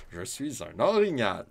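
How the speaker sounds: lightly voiced silly moose; a hint of a goofy character voice; mock moose. Shown as a demonstration. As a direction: Je suis un orignal as a goofy moose. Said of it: "Histoire de filou qui lit toujours trop vite".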